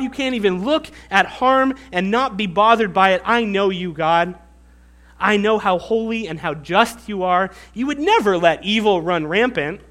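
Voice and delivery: Habakkuk's sarcastic praise to God; sarcastic flattery. Retold or imitated. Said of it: "sarcasm in his voice".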